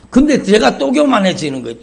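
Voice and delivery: loud exclamation. Acted. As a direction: cry it out to the congregation. Preacher exclaims, then repeats.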